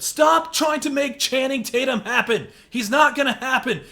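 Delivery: laughing shout, high and loud; Mean Girls rant. Acted. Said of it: "driven me to quote Mean Girls".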